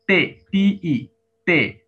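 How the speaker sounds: তে then টি ই, drawn out letter by letter; slow spelling. Shown as a demonstration. Teacher slowly spells out তে for students. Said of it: "দেখেন আমরা তে কিভাবে লিখব".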